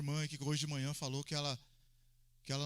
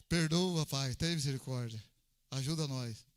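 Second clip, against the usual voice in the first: laughing mock prayer; 5 semitones lower, slower than usual. Real, not acted.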